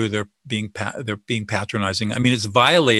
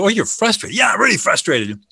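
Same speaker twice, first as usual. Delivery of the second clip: relieved agreement; 9 semitones higher, 3 dB louder than usual. Acted. Acted dialogue, speaker agrees.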